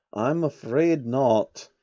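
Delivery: a hint of a sly old man faking sorrow; slow and grave; mock regretful old man. Soros voiced.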